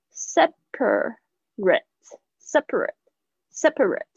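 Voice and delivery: slow "Separate" ending in a weak short "-rit"; separate with a light ending. Shown as a demonstration. A teacher drilling the adjective "Separate" slowly. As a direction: say "Separate" slowly, last syllable small. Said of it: "这个A是发这种小I的那个it的声音".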